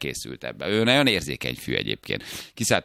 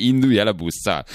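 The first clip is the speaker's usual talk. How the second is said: higher-pitched mock yell; retold yell; 4 semitones higher, 4 dB louder than usual. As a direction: act out a half-hearted shouted order to drive. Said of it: "miközben üvölte".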